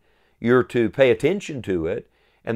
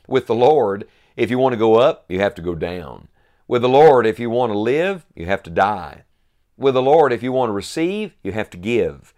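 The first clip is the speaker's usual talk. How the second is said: preaching build; 5 dB louder than usual. Acted. Preacher's rhythmic triple contrast.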